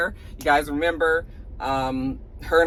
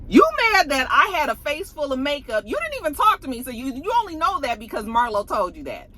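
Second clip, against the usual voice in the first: higher indignant rebuttal; 5 semitones higher than usual. Retold or imitated. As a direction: push back, offended. Voicing Kenya's indignant rebuttal.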